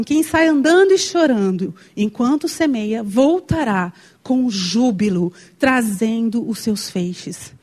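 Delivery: slow, solemn psalm reading; reading scripture. Shown as a demonstration. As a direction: read the verse slowly and weightily. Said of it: "a palavra fala assim".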